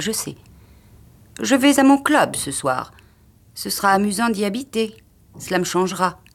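a hint of a nervous wife; anxious wife. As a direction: answer quickly, trying to please. Wife answers her husband.

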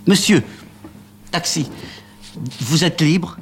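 cris aigus et forts pour héler; héler le taxi comme une dernière chance; appel pressé. Acted. Amanda hèle le taxi, affolée. (Amanda hèle le taxi, voix très aiguë et forte)

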